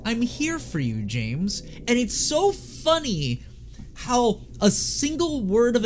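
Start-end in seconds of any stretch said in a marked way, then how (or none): 0.1-1.6 supportive, sincere. Retold or imitated. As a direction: offer help sincerely, bright start. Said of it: "Whereas in this game".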